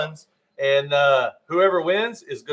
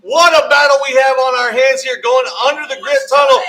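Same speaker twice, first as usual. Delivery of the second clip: excited; 6 semitones higher, 8 dB louder than usual. Real, not acted. Close finish, commentator calls it.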